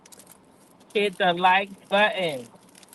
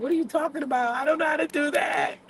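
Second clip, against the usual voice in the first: higher, mock-flustered protest; imitating own upset confusion, pitched up; retold near-tearful fluster; 6 semitones higher than usual. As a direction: act out being worked up and lost. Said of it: "I about to bust out crying".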